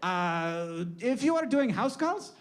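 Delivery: hammed-up old-world accent, lifted pitch on each rule; comic ancient lawgiver; Hippocrates. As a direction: proclaim the rules in a mock foreign accent. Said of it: "you can still do my accent".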